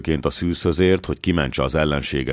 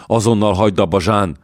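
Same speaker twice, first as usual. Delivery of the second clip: frightened demand; 4 semitones higher, 4 dB louder than usual. Acted. Dallon frightened by rising dead.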